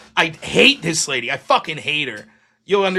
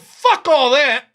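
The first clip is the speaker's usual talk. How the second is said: retold anger; 6 semitones higher, 8 dB louder, slower than usual. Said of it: "I was very mad".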